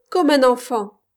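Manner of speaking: bitter cry of reproach. A narrator's reading. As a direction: lash out at him like a reproach. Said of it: "cria-t-elle".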